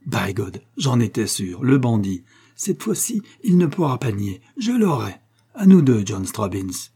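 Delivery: triumphant, crowing that he has his man; joyous cry. Acted. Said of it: "s'écria le chef ... joyeux".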